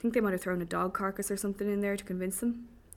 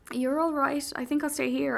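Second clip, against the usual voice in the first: high, loud nervous squeak; pitched up, digging your heels in; 7 semitones higher, 5 dB louder than usual. A narrator's reading. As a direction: squeak out a reluctant refusal. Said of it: "I squeak".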